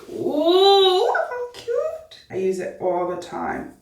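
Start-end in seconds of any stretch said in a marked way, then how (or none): 0.1-2.2 put-on sudden posh British accent, pitched up; admiring her look in a mock British accent. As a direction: slip into a playful UK accent. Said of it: "where's this little accent coming from".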